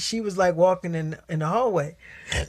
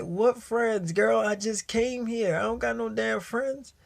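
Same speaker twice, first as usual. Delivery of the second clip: higher-pitched, incredulous comeback; retold protest; 5 semitones higher than usual. New student denying he has any friends, mock-indignant protest. Denies he would tell friends.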